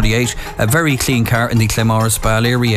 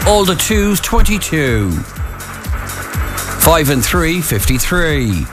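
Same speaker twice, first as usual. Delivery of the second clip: calling numbers, pausing between calls; bingo caller. Acted. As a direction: call each number like a bingo hall.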